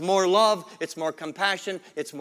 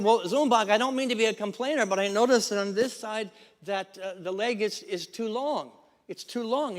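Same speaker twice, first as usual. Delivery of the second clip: hesitant joke customer; 5 semitones higher than usual. Acted.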